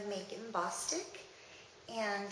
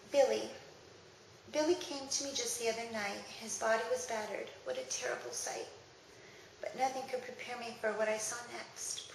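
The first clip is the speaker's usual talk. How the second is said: grave, measured verse recital; serious poem reading. Acted. Reading a poem about battered Billy, grave recital. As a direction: tell it soberly, verse by verse.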